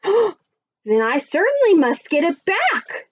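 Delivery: mildly exclaimed, high and slow; determined exclamation. Acted. Jack answering the old woman, determined exclamation. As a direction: lift it with slow, firm resolve. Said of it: "Jack exclaimed".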